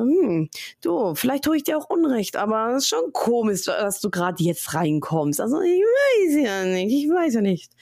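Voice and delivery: suspicious. Retold or imitated. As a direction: act out a wary, suspicious reply. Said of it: "Und ich so".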